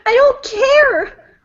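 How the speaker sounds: defiant shout. Acted. Acted defiant cry.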